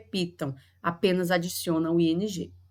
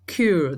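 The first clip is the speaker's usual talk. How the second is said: occur broken apart, with a strong second syllable; stress on last syllable; 2 semitones lower, 4 dB louder than usual. Shown as a demonstration. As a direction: hit the final syllable of occur. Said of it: "A sílaba mais forte dele é a última". (occur com a última sílaba mais forte)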